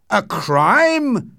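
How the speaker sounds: high, loud, alarmed outburst; startled shouted question; frightened shout. A narrator's reading. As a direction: cry it out in shocked alarm. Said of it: "shouted Utterson, now frightened too".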